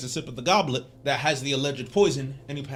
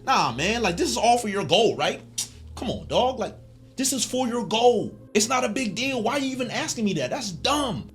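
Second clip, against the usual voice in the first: higher, breezy brush-off of a friend's worry; casual dismissive buddy; 7 semitones higher than usual. Retold or imitated. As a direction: wave it off like it's nothing, dude. Guts brushing off Griffith's doubt.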